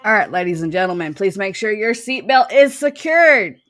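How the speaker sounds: flight attendant. Pretend. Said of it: "Chucky said she missed her calling to work for Delta Airlines".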